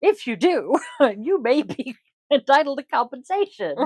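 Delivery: mock ad read through laughter; laughing announcer voice. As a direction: giggle through the ad pitch. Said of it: "T V announcer voice".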